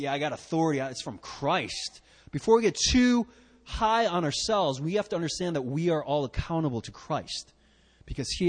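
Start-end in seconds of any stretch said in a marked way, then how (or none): 0.0-2.0 mock prideful.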